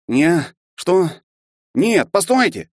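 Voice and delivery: high, loud pleading cry; panicking as the professor walks away; desperate cry. A narrator's reading. Expelled half-elf crying out after the professor, desperate. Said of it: "крикнул он".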